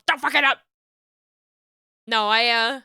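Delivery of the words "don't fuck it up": a louder mock self-scolding; yelling at oneself. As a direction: shout it as a warning to yourself. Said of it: "That's me at myself".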